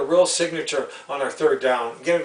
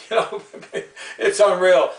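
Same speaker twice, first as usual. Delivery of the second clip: laughing; 2 semitones higher than usual. Real, not acted. Scoffing at Toronto's bad play.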